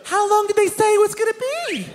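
high-pitched imitation of a wife; pry in a high wifely voice; nagging wife. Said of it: "she heaves these loaded questions my way".

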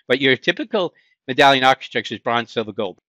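put-on playful Boston accent. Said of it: "use my Boston accent".

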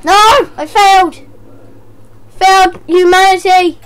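hammed-up loud wail of defeat; mock despair. Player failing the round, wailing in mock despair.

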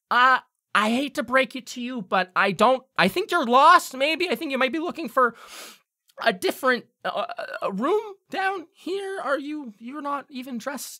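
high, reedy goblin lecturing the strangers; a fussy little official turning people away; hobgoblin voice. Acted. Hobgoblin tells the party they're lost. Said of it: "He goes".

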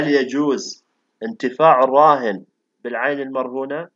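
slow clear repeat. Real, not acted. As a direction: spell it out slowly so it gets through. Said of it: "من صوتك القطع".

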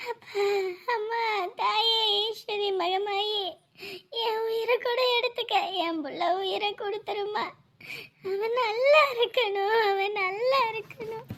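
soft, tearful plea to the goddess; weeping prayer. Acted. Mother begging the goddess for her son's life, softly weeping. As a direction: beg quietly through tears.

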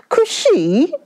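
high, breathy whispered shriek of disbelief. A narrator's reading. Wife shrieks back at her husband's demand, high and breathy. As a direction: squeak the word Cushy out high in shock.

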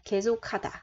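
계속하다 with the end said khata, breathy K; 계속하다 read kye-so-kha-da; aspirated kha. Shown as a demonstration. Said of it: "mình đọc là khata nha".

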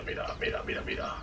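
breathy whispered repeats; whispering. Pretend. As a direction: whisper it away to nothing. Fades to whisper.

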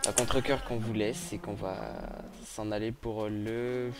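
slow, drawn-out sorry goodbye; mock reluctant farewell. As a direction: drag the words out, pretending to be sad.

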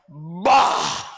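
low, booming bump noise; imitated crash. Driver imitates the pick-up bumping his truck, crash noise. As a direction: make the thud of a collision.

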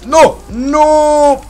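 high, loud despairing shout. Real, not acted. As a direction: cry out as you lose. Being killed in game.

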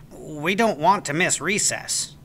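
lightly voiced boy, warning; a hint of a nervous classmate; Jimmy warning Oliver, lightly voiced. A narrator's reading.

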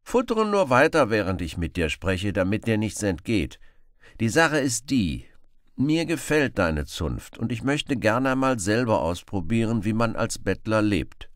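high, loud eager plea; hungry Robin Hood. Acted. Robin begs the beggar for food, high and eager. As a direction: beg him to stop, mouth watering.

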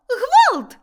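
a second high, loud cry for help; frantic scream. A narrator's reading. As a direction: keep screaming in panic. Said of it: "закричала Милашка".

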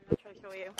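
hushed unvoiced aside; whispering. Real, not acted. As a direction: breathe it as a whisper. Quick aside while filming.

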